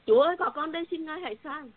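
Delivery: eager answer. Retold or imitated. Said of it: "miệng mình cũng chứng".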